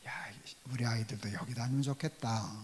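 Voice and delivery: soft whispered wish to himself; whispered thought. Retold or imitated. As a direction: whisper it like a private longing. Inner wish retold as a thought.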